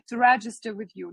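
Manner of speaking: overdone, clearly stressed words; exaggerated. Shown as a demonstration. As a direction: exaggerate it so it sticks. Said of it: "це я вам так утрую".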